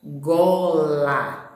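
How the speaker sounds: gola spoken clearly with a voiced G and falling; teacher's word demo. Shown as a demonstration. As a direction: sound out gola for young learners. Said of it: "e logo abaixo".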